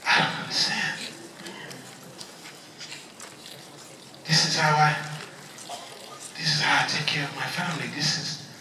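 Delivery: put-on hushed, pleading Haitian-accented voice; devastated mother in a Haitian accent, trailing low; deep Haitian accent. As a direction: speak softly and haltingly with a Haitian accent. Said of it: "my mom has a deep accent".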